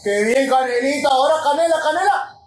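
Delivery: rising excited goal call, yelled; breakneck goal commentary. Real, not acted. Goal celebration, commentator style.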